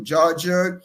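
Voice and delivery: normal talking voice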